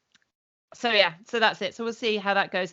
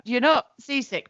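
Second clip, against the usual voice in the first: laughing; 4 semitones higher, 5 dB louder than usual. Real, not acted. Laughing agreement.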